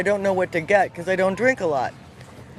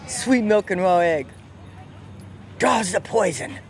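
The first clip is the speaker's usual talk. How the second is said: put-on old Southern man voice. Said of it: "I have to speak like him".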